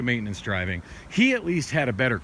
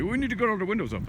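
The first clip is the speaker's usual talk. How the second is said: put-on Middle Eastern accent; 9 semitones higher, faster than usual. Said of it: "has a really funny Middle Eastern accent".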